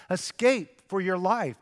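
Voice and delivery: angel's command. Acted. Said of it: "This is the angel speaking".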